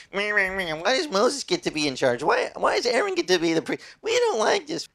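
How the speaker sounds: mock the complainers, whining; whiny grumbling Israelites. Preacher mocking grumbling Israelites against Moses, whiny. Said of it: "and they were like".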